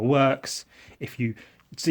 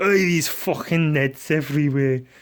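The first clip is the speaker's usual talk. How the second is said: bad, terrible put-on Scottish accent; 3 semitones higher than usual. Explaining a scottish slang word, quoting how people there would say it: terrible scottish accent. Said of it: "that was a terrible accent".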